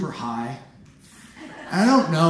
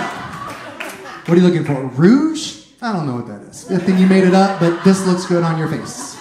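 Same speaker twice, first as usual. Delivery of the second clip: a lightly voiced eager shop assistant; mock salesclerk; 4 dB louder than usual. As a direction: play the helpful cosmetics clerk. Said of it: "so I was like".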